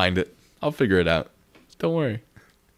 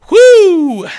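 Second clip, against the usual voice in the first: whoo cheer; 15 dB louder than usual. Real, not acted. Cheer for donation.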